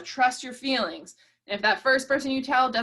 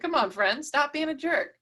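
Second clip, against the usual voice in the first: a firm, higher call-out on jerk; calling a friend out; 4 semitones higher than usual. Pretend. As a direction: call him out, half-teasing but firm. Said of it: "might just call him out on it".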